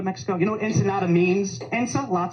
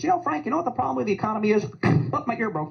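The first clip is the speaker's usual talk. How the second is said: frozen Midwesterner; 5 semitones higher, faster than usual. Retold or imitated. Midwesterner chatting in freezing cold.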